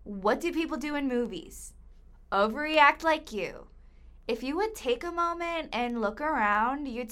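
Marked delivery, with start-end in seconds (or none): 2.3-3.6 taunting jab. Acted. Captor taunts victim.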